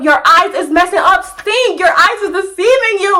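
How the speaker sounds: high, pushy, fast talking him out of it; frantic pleading. Retold or imitated. Begging her boyfriend outside, high and frantic. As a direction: talk fast and high to convince him his eyes lie.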